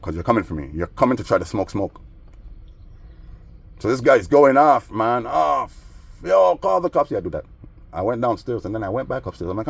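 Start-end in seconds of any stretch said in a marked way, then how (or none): 6.2-7.1 mock panicked neighbor. Imitating neighbor yelling.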